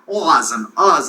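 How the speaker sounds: AHS and UHS stretched long; long drawn-out vowels. Shown as a demonstration. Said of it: "long drawn out".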